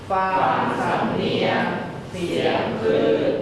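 poem recitation. Acted. Student reciting a Thai poem for the teacher, chanted.

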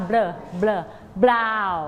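"blur blur" as a sounded-out BR, then brown; B and R blended. Shown as a demonstration. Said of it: "ตัว B กับตัว R ออกเสียงคู่กันนะคะ".

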